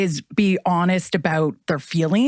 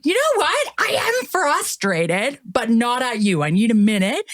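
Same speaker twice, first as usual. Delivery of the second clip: slow, higher, measured reassurance; calm and honest; 5 semitones higher than usual. Retold or imitated. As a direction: own the feeling gently for the child. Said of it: "I was like".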